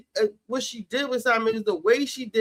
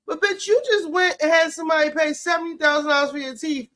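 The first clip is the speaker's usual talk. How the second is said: shout; 5 semitones higher than usual. Real, not acted. Ranting at Kelly.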